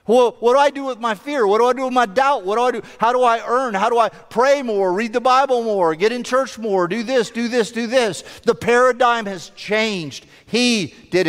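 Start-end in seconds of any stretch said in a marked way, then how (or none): 0.1-8.2 acted anxious questioning. Piling up a worried believer's questions.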